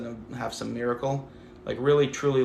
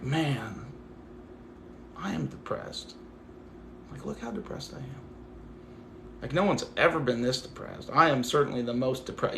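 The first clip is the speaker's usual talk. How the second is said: mock self-pity; 3 dB quieter than usual. Shown as a demonstration. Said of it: "be like".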